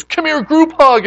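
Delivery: loud, high, drawn-out mock call; exuberant invitation. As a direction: imitate an overjoyed friend summoning everyone. Retelling friend's exuberant invitation.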